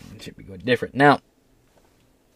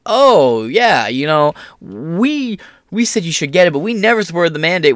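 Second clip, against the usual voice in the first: mock outlet voice; 3 semitones higher than usual. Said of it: "a lot of outlets that were like".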